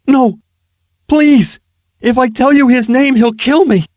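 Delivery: high, loud frantic pleading; desperate begging. Acted. Ruffian begs Erilyn not to make him tell, frantic. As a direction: beg for your life.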